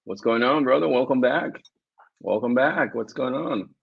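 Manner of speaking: talking through a mouthful of food; wolfing down food. Real, not acted. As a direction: mouth full while talking. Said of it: "I'm sorry, guys, I've been starving".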